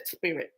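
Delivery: "spirit" with a drawn-out lisped s. Retold or imitated. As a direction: lisp the s at the start of "spirit". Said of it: "if you have a lisp".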